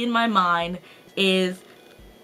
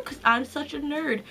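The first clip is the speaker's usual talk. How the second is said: high voice; 5 semitones higher, 3 dB quieter than usual. Real, not acted. Admitting to being a book nerd, high excited voice. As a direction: still raised in pitch, softer after a squeal. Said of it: "My voice got really high there".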